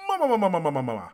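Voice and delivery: booming, high mock cartoon laugh; Big Mom's laugh. Imitating a pirate's signature laugh mid-fight, booming mock laugh. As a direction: mimic a villain's rolling "ma-ma-ma" laugh, loud then falling. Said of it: "she does her laugh".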